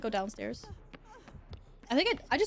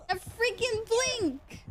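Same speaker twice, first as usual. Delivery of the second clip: slow, drawn-out exasperation; exasperated; 9 semitones higher, much slower than usual. Real, not acted. Player annoyed at the blink, slow exasperated groan. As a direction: stretch out the complaint.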